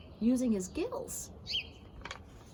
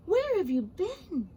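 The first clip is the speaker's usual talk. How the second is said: eager, higher and louder greeting; excited; 6 semitones higher, 4 dB louder than usual. Acted. Fish greeting his returning friend: excited. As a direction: burst out glad to see him. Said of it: "asked the fish excitedly".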